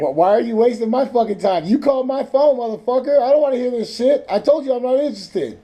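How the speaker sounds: high, loud, profane phone tirade; real angry yelling. Real, not acted. Fed-up man tells scam caller off, real angry yelling.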